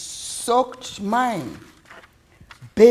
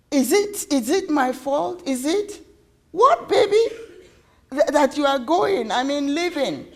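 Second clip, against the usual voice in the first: higher, halting, worried questions; anxious child; 5 semitones higher than usual. Acted. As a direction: ask timidly, stumbling over the words.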